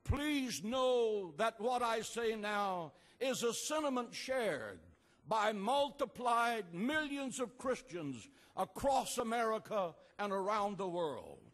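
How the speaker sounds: normal talking voice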